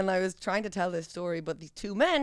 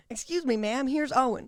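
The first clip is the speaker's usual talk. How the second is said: put-on Southern accent; 4 semitones higher than usual. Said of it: "How would you say it in a Southern accent?".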